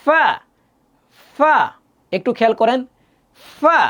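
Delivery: f in ফা, teeth on the lip; ফা as a clear f. Shown as a demonstration. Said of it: "দাঁতটা আপনার ঠোঁটের এখানে লাগবে".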